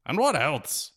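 coaxing the lads; Feegle call. A narrator's reading. Feegle leader calls.

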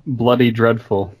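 put-on English tea-room talk; mock English accent. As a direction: lay a joke English accent on thick. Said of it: "no English accents".

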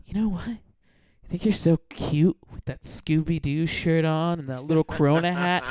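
imitated saccharine stripper; mock-sweet. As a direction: drag out the fake compliment. Stripper's fake sweetness before insult.

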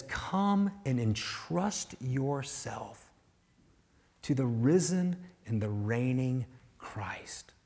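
slow, soft, whispered welcome; gentle invitation. Retold or imitated. Preacher voices the invitation softly and slowly. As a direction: draw them in tenderly.

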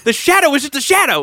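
delighted mock revelation with a laugh; amazed awe. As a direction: gasp in delight as if seeing the light for the first time. Imagined awe at seeing reality.

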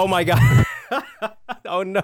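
high laughing surprise; laughing shriek. Real, not acted. Sudden rain on call, laughing.

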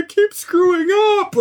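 mock crying. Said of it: "like, crying".

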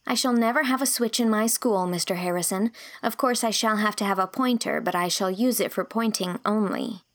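determined Anne; earnest young girl. Acted. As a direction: state her principles proudly. Young teacher voiced earnestly.

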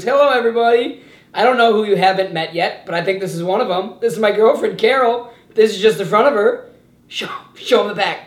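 playful boss voice, eager and a little loud; Michael Scott impression. Host voice introducing his girlfriend to the office, lightly eager. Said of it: "he goes".

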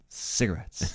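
breathy, whispered impression; a hushed, voiceless one-word parody; Don Draper. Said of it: "Abed's impression of Don Draper".

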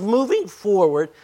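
real accidental voice crack. Real, not acted. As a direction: voice breaking upward mid-phrase. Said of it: "My, my voice is breaking".

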